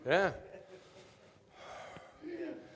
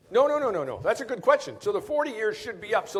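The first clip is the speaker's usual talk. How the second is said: excited; 8 semitones higher, 4 dB louder than usual. Real, not acted. Correcting himself excitedly.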